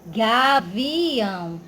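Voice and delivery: "Gavião" very slow, in stretched syllables; split into syllables. Shown as a demonstration. Teacher showing separated vowels, "Gavião" slowly split up. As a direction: pull "Gavião" apart into ga, vi, ão. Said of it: "O I ficou separado do A".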